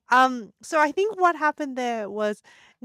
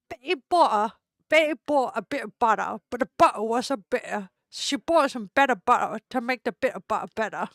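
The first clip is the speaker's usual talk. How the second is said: put-on a light, louder British accent on the tongue twister; 4 dB louder than usual. Streamer flexing a tongue twister for chat, light British accent. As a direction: show off a hammed-up British accent. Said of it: "I'm gonna do it in a British accent".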